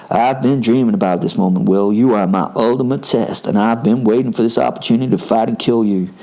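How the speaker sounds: put-on American-accented challenger, steady and level; attempted American accent. Quentin challenging Will to a fight, attempted American accent. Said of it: "I'm gonna attempt an American accent".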